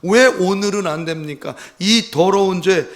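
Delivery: loud, high, pleading cry to God; a desperate, loud prayer of lament; anguished lament. Retold or imitated. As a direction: wail the confession out in anguish. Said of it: "이렇게 고백했다는 겁니다".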